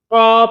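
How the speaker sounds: क़ा with its long vowel held; lengthened क़ा; slightly stretched vowel. Shown as a demonstration. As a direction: draw out the vowel of क़ा a little. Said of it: "थोड़ा सा खींचेंगे".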